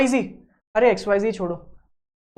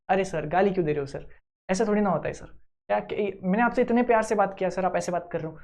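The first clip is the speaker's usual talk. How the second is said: polite customer care; 3 semitones lower, 4 dB quieter than usual. Retold or imitated. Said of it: "बहुत प्यार से बात कर".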